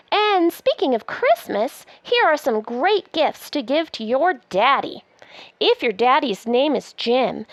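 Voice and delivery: lively, sing-song picture-book reading; reading to children. Acted. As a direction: read it aloud like a bedtime book. Reads the book aloud.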